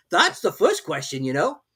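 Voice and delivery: lofty servant talking down; footman's voice. A narrator's reading. Footman figure voice.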